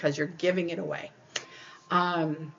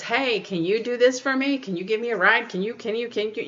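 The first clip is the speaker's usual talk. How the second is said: nagging, pleading requests; pestering Bob; 4 semitones higher than usual. Retold or imitated. Bob asking you for a ride, a nagging plea. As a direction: nag like a needy friend. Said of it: "Bob comes over and says".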